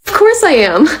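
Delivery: pleased, vindictive glee; gleefully excited. Acted. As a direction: relish it, stretching the words. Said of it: "You sound so excited about that".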